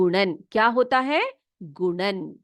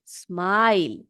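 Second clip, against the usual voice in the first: slow dictation; 3 semitones lower, slower than usual. Shown as a demonstration. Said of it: "लिखिए smile".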